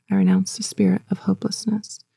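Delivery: breathy whispered renunciation; whispered repeat. Shown as a demonstration. Congregation echoing the preacher's renunciation, whispered. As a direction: whisper it back. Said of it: "repeat after me".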